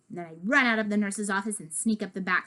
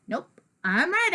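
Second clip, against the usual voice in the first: put-on higher, insistent kid comeback; insistent retort; 7 semitones higher than usual. Child narrator arguing with Albert, insistent higher retort. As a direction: push back firmly, pitched up.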